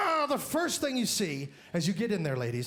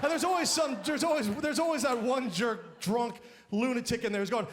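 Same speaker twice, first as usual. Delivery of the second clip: normal talking voice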